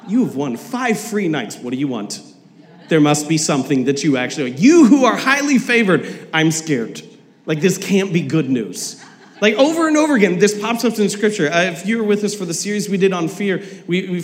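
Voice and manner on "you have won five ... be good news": lightly voiced salesy pitch turning wary; a hint of a pushy salesman; timeshare salesman. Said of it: "a timeshare salesman".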